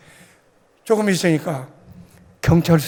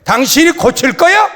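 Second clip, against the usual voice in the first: louder, indignant retort; retold shout; 3 semitones higher, 3 dB louder than usual. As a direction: reenact yelling back at the accuser. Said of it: "그러고 소리를 질렀어요".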